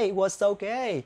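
slow linked "it was okay", was running into okay; slow careful linking model; slow demo. Shown as a demonstration. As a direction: glide "was" straight into "okay". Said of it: "cố gắng là it was okay".

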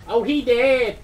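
loud high yelp; excited shout. Real, not acted. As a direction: shout it in shock. Game death reaction.

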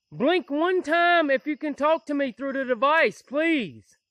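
loud plea to the spirit; loud call to a ghost in the woods. Real, not acted. Calling out to a spirit.

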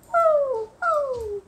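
high, loud excited woo; excited cheering. Real, not acted. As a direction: cheer like on a rollercoaster.

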